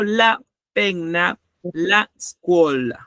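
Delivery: slow, clear example words; slow teaching demo. Shown as a demonstration. Teacher slowly shows students the article with nouns. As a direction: lay out each word slowly. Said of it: "slow article examples".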